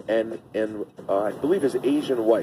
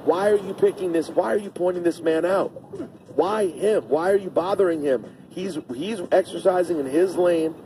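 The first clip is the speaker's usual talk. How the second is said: raised, pleading bystander defending the man; retold bystander's protest; 4 semitones higher than usual. Retelling a bystander telling off the yelling couple, rising pleas. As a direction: argue on his behalf, slowing near the end. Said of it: "There's a lady filming".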